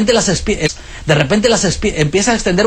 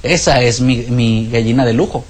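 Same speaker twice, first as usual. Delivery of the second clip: lower, slow chuckling farmer; a farmer proudly showing off his hen, lower and slow; smug farmer; 6 semitones lower than usual. Acted. Farmer boasting to his friend: lower, slow, chuckling. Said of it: "Dice el granjero".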